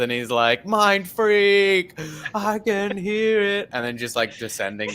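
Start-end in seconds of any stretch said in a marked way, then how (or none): 0.6-3.7 high, drawn-out stage-magician cry; mock-dramatic magician showmanship; Criss Angel. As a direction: stretch it out like a hammy illusionist. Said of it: "like, a Criss Angel magician".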